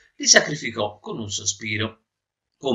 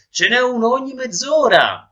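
high, louder sailor's shout; calling out; 13 semitones higher, 5 dB louder than usual. Acted. Sailor shouts the timetable to the swimmer, high and loud. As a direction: call it out loud across water. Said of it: "gridò un marinaio".

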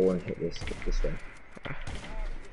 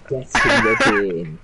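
slow taunt; 7 dB louder, slower than usual. Real, not acted. Taunting the loser.

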